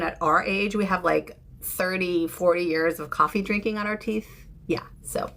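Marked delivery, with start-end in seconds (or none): 4.7-5.3 soft breathy whisper; whispered aside. Real, not acted. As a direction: drop to a whisper.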